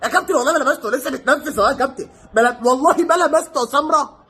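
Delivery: laughing imitation of a lying player swearing innocence; half-laughing, swear you never touched him; mock pleading player. Vlogger mocks Samir's fake innocence to the referee, laughing. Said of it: "أنت تبقى داخل في بطن اللعيب وتقول".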